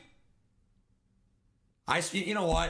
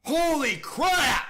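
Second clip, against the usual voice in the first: exasperated yell; 4 semitones higher, 5 dB louder, slower than usual. Real, not acted. Reacting to a bad game play.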